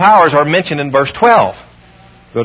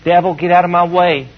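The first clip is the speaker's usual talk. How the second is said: mocking a feeble, half-hearted rebuke; limp, toothless scolding of the devil; wimpy prayer. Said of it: "What a wimpy way to pray".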